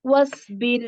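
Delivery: വസ്ബിർ ending in a soft light ra. Shown as a demonstration. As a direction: close വസ്ബിർ with a thin soft ra. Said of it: "soft ആയിട്ടാ പറയുന്നത്".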